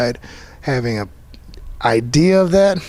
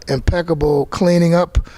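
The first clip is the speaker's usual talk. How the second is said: mildly tongue-in-cheek, slowed praise; lightly facetious, drawn out and a touch higher; 5 semitones higher than usual. Real, not acted. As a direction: say it slowly with mock-seriousness. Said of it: "I say that with a facetious tone".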